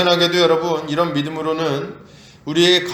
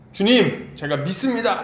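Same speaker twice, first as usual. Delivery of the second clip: half-raised cry of faith; mild mock shout; 3 semitones higher than usual. Preacher imitating the father crying out belief, mildly raised. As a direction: call out to the Lord, only moderately raised. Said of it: "갑자기 소리를 지릅니다".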